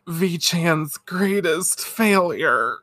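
drawn-out mock lament; hammed-up slow despair; slow dramatic thought. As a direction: drag it out like a dying line. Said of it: "Minako's thinking".

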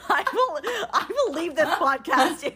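laughing, high-starting ultimatum; playful threat at breaking point. Real, not acted. Co-host threatening to leave the podcast, laughing ultimatum. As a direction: threaten them through laughter. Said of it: "This is her breaking point".

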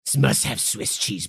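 very slow, low, purring ooh; campy drag queen. Pretend. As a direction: vamp it up like a drag diva. Campy mod persona.

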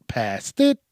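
"Past it" with IT jumping up; mimicking own odd emphasis. Shown as a demonstration. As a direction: echo an odd "Past it", pitch popping up on "it". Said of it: "why I said it like that".

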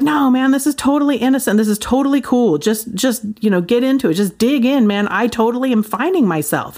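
bright, quick, breezy reassurance; hammed-up enthusiastic pastor friend brushing off worries; mock excited friend. Pastor friend brushing off Sarah's alarm, breezy and excited.

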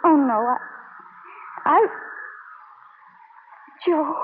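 choked, crying; tearful stammer. Acted. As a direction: stumble through tears. Taffy crying.

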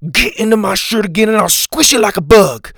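high, loud squeaky threat; threatening. A narrator's reading. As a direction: threaten him sharply. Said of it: "Jack threatened from the ground".

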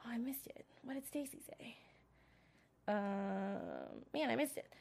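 under the breath, to oneself; real whisper while hunting for a lost note; whispered aside. Real, not acted. Reviewer searching her notes for a line, whispering.

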